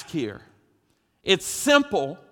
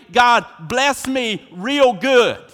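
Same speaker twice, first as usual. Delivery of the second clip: louder, slow, relishing each word; emphatic and enthusiastic; 3 semitones higher, 5 dB louder, slower than usual. Shown as a demonstration. Preacher rephrases the prayer for the congregation, emphatic and drawn out. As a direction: lean into it, bless me real good. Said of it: "we might say".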